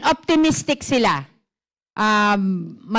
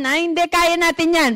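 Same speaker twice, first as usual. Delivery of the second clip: mock overconfidence; 6 semitones higher, faster than usual. Imitating an overconfident choleric.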